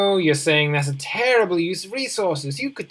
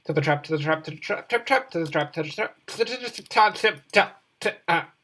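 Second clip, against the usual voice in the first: faster run at to the trap, tangling; tongue twister retry. Shown as a demonstration. Gamer retrying the tongue twister, tangling up again. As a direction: push through to the trap until it falls apart. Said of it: "Let's try that again".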